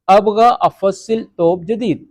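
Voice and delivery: slow, careful ابغى افصل ثوب جدید; teacher modelling slowly; slow model sentence. Shown as a demonstration. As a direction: dictate the Arabic sentence slowly. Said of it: "یعنی کہ میں نیا توپ".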